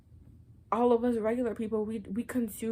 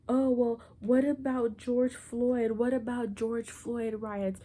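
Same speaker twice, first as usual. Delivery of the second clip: mock whataboutism; 3 semitones higher, 3 dB louder, slower than usual. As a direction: parody the whataboutist, drawing it out. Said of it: "could say".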